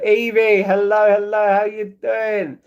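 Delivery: high, loud hello with drawn-out ending; excited greeting. Real, not acted. Streamer greeting Evie as they arrive, excited. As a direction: call out loudly, stretching the last words.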